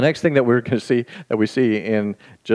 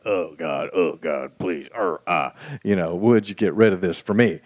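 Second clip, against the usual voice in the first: pleading prayer; 2 semitones lower than usual. Retold or imitated.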